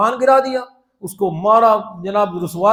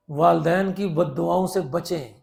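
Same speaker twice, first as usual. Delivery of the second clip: slow repeat; 5 semitones lower, 10 dB quieter than usual. Shown as a demonstration.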